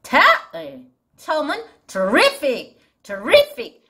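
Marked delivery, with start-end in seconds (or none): 1.9-2.8 terrific with the beat on RIF; second-syllable stress. Shown as a demonstration. Teacher introducing the first word, terrific stressed on "RIF". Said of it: "리의 강세가 있어서". 3.0-3.8 terrific with RIF pitched up high; second-syllable stress. Shown as a demonstration. Teacher modelling the word, terrific stressed high on "RIF". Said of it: "리의 강세가 있어서".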